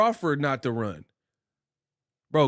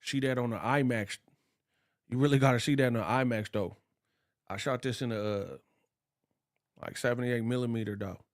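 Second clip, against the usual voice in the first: Coogler voice; 5 semitones lower, 6 dB quieter, faster than usual. Retold or imitated. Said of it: "He's like".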